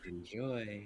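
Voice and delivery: sinister, unsettling, creepy, eerie voice. Joking about leaving notes in houses: creepy voice. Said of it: "Creepy voice just like".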